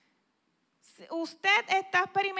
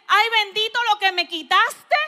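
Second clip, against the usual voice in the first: self-pitying lament; 4 semitones higher, 10 dB louder than usual. Retold or imitated. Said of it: "¿Te caíste con actitud de".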